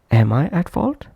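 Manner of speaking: "Am" said fully and strongly, question rising on "fault"; prominent full-form "am". Shown as a demonstration. Teacher demonstrating the full-length form, "Am" pronounced prominently. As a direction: give "Am" its whole vowel, then lift at "fault". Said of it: "that's why pronounced prominently".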